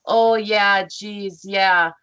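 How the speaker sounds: imitated Minnesota accent, loud on the yeahs. Cohost quoting how Minnesotans talk, mock Minnesota accent. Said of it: "We really do talk like that".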